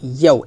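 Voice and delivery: ইয়াউ with mid-tongue against the palate; a firm palatal glide opening ইয়াউ. Shown as a demonstration. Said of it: "জিব্বার মধ্যখান উপরে তালুতে লাগবে".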